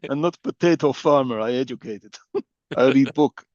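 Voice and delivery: half-hearted mock Russian accent; bad Russian accent. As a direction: lightly fake a Russian accent. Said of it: "My Russian accent better than hers".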